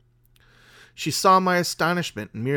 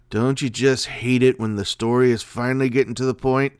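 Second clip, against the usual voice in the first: radio host aside; 5 dB louder than usual. Acted. Host's aside to listeners.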